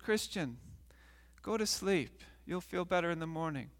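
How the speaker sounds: soft, mild reassurance; soothing. Acted. Family sends troubled man to bed, gently soothing. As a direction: settle him down with a softened voice.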